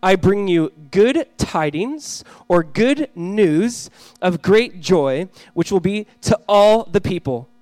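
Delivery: measured, emphatic public Bible reading; scripture reading. A narrator's reading. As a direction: proclaim the verses, stretching key words. Reads scripture aloud to congregation.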